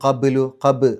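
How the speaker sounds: ഖബ് with the ബ് bounced out audibly; qalqala on ba. Shown as a demonstration. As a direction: pop the ബ് in ഖബ്ലു. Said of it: "ബ് എന്നുള്ള ശബ്ദം പുറത്തേക്ക് കേൾക്കണം".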